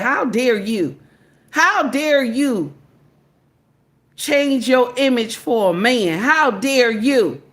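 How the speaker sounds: drawn-out, indignant retort; mock indignation. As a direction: imitate upset women, dragging out the outrage. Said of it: "They mad, baby. Mm. They said".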